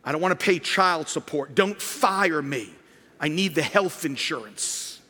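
a light mocking voice begging not to be punished; pleading penitent. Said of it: "This is the reward repentance".

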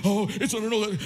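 mock protest. Preacher imitating people who fight about tithing, mock protest. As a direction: mimic a commenter jumping in to argue. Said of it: "will begin to fight".

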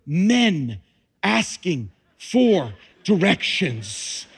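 slow, dry punchline; deadpan joke. Acted. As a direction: let the joke land slowly. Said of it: "Do you see the miracle".

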